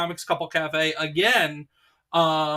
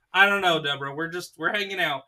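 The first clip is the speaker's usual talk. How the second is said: ordinary talk, nothing marked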